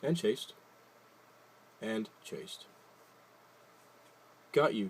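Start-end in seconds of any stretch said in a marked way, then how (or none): 4.5-4.9 a louder triumphant call; cried out. Acted. Pip catching the feather, calling out gladly. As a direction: call it out as she grabs it. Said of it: "she cried".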